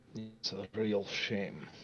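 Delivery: slow, drawling, sarcastic delivery.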